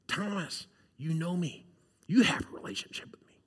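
soft, almost whispered reassurance; tender quiet. Retold or imitated. Jesus reassuring Thomas, softly and almost whispered. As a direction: lean in and whisper it kindly.

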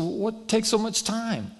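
slow, high, baffled question; retold incredulity. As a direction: draw out the puzzled demand. Retold impatient phone argument.

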